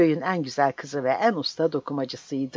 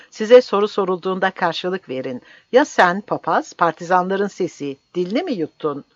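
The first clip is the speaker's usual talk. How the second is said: angry berating; 4 semitones higher, 6 dB louder than usual. Acted. Commander berating the priest.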